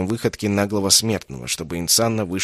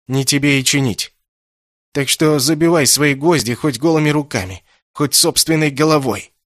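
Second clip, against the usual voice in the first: louder, higher, defiant jeer; defiant shout; 5 semitones higher, 5 dB louder than usual. Acted. Kessin mocks Insanna's claim to mend him, defiant. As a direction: throw it back in his face. Captive hurls defiance at mage.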